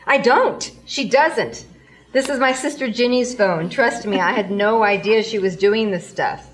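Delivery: loud, high, desperate denial; frantic protest. Acted. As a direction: insist loudly, almost pleading. Frantic denial to phone clerk.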